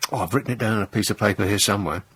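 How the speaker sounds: quick, fumbling mock agent; mock flustered spy. Comedian mocking an MI5 officer with a lost note, quick and fumbling. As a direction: rush it like a panicky clerk. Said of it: "mocking flustered MI5 officer".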